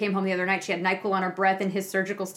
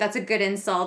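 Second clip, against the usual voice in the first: plain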